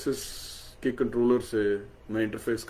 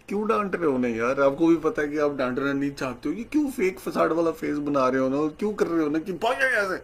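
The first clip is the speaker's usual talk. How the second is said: fond laughing tease; 3 semitones higher than usual. Retold or imitated. Teasing guru fondly in thought.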